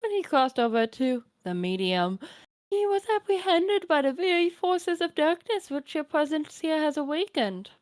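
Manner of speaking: lightly voiced doting grandmother; a hint of a kindly old granny; old grandma voice. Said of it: "my Nana voice".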